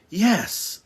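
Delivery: high, drawn-out realization; excited discovery. A narrator's reading. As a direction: exclaim as if just discovering it. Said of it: "familiar sound of excitement and discovery".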